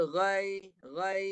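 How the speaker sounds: "ghai" ending in a loose glide; ya not closed. Shown as a demonstration. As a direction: say "ghai" without raising mid-tongue for the final y. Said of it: "tu ya tak mati".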